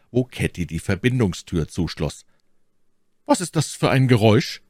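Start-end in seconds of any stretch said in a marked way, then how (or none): 3.2-4.6 higher, startled woman's question in the dark; sharp, alarmed query from the darkness. Acted. My Lady hears a noise in the dark, startled.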